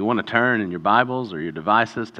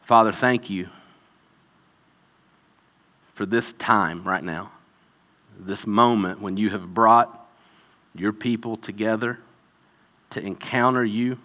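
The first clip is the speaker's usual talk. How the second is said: prayer. Acted. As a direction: pray it gently and unhurried. Leads congregational prayer.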